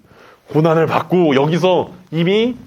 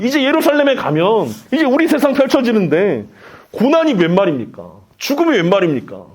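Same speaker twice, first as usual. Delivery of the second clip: mildly raised voice, agitated disciple protesting; acted angry protest; 3 semitones higher than usual. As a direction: protest in mock outrage, pitch climbing then settling. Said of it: "예수님께 소리를 질렀을 것입니다".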